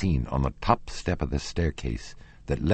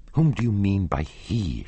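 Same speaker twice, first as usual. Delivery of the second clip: changed voice; 4 semitones higher than usual. Acted. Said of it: "she asked in a changed voice".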